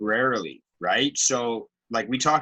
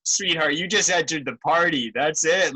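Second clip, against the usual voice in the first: lightly imitated shaman, pitched higher; mock-reassuring shaman; 5 semitones higher than usual. Co-host playfully mimics the reassuring shaman to his friend, higher-pitched. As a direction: imitate someone soothing a complainer, pitched up. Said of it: "like, reassuring she is".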